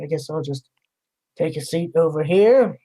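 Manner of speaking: mildly martyred, grudging resignation; passive-aggressive. Acted. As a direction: act put-upon while giving in. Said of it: "passive-aggressive type of tone as he walks up".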